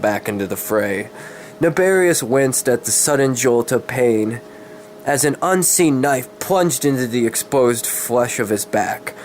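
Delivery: steady dramatic storybook reading; story narration. A narrator's reading. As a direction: read the dark fantasy tale aloud, evenly. Reads a dark fantasy story.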